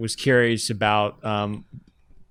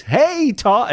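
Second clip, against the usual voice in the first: imitating Huddy; 11 semitones higher than usual. Colleague retelling the boy's phone call, high imitated greeting. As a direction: lightly mimic a boy's holler, pitched up. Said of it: "when Huddy calls you and, and says".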